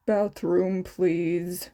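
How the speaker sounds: sighing answer. Acted. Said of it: "Shota answered him with a sigh".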